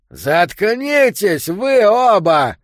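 loud, slow angry yell; shouting. A narrator's reading. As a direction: bark it out to silence them. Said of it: "крикнул Йо".

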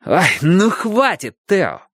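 squeaky mocking falsetto; shrill camp pantomime dame. A narrator's reading. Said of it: "добавил он уже нормальным голосом".

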